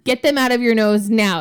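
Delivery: mock panic at the kid; alarmed mom. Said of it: "And I was like".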